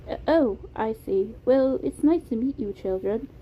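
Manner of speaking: put-on polite, slightly hesitant British accent; Beam, British accent. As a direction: greet children courteously in a British accent. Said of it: "It was a soft British accent".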